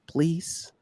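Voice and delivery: soft, high-pitched sweet plea; playful little high plea; nice pleading. Pretend. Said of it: "I'm asking really nicely".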